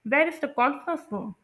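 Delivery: slow, falling at room; falling wh-question. Shown as a demonstration. Teacher repeats wh-question with falling pitch. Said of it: "मैं कह रही हूँ".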